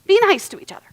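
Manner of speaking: whispered, singsong parent nag; hushed mock scolding; mock nagging. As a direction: imitate a tired parent saying be nice. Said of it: "rather than".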